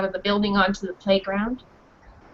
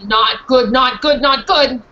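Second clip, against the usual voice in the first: anxious dog; 5 dB louder, slower than usual. Acted. Dog Mariah voiced in story.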